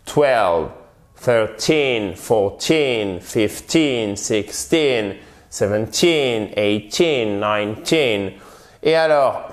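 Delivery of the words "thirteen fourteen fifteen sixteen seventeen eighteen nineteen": put-on "thirteen" to "nineteen" with a long, falling TEEN; final-syllable stress. Shown as a demonstration. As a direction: lean on each "-teen" and let it fall. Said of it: "l'accent sur la dernière syllabe". (accent tonique sur "-teen", i long)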